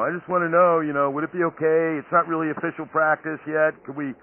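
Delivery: sheepish. Retold or imitated. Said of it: "they're real sheepish".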